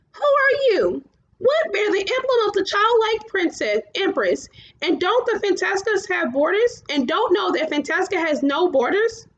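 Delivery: high, strange chorus of giants; many voices as one; giants in unison. A narrator's reading. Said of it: "all spoke with one mouth".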